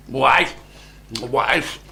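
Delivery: calling out, slow and loud on the order; giant yelling. A narrator's reading. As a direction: bellow for the wife, dragging the words. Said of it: "he yelled at his wife".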